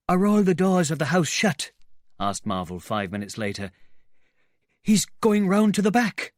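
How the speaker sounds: high, loud anxious questions; frightened asking. Acted. Marvel anxiously checking every door is shut. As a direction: ask nervously, voice high.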